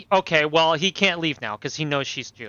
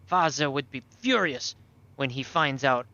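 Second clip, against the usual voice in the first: put-on halting German-accented boy; captive German boy, defensive. Captive boy denies caring, then invokes Father, defensive and halting.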